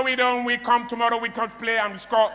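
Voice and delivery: lightly mocked Spanish-accented English; Pep Guardiola. Speaker mimics Spanish coach to audience, lightly mocked Spanish accent. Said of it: "That's how he talks".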